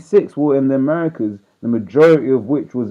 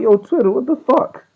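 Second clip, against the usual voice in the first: pissed; 12 semitones higher than usual. Retold or imitated. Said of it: "I was pissed".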